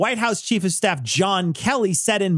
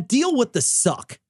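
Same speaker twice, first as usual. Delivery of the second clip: usual speaking voice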